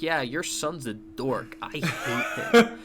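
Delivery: slow, sneering mock Clyde. Retelling Clyde's scene, mocking.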